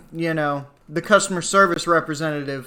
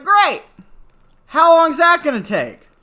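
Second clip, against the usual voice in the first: much higher, louder mock delight; sarcastic "Great!" pitched way up; sarcastic enthusiasm; 12 semitones higher, 7 dB louder than usual. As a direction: fake cheer masking annoyance. Sarcastic reply to repairman.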